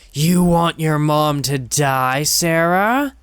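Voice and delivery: building from a coaxing question to a high, loud taunt; rising taunt. Acted. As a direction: climb from creepy coaxing to a full shout.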